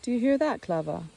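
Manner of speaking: "hear" called out high and loud to his wife; calling out. A narrator's reading. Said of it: "he called out to his wife".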